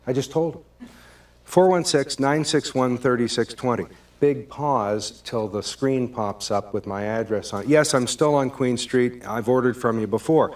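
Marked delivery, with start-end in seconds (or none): 1.4-3.9 repeating the number, clearly annoyed; irritated tone. Acted. Caller repeating his number to the pizza guy, irritated. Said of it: "that tone in my voice". 7.7-10.5 that tone. Acted. Caller reminding the pizza guy he's ordered before, exasperated. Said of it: "Now I'm getting that tone in my voice".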